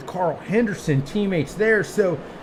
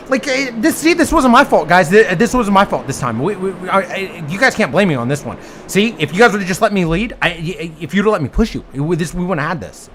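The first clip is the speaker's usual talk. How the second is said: impression of Nick. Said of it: "impression of Nick again".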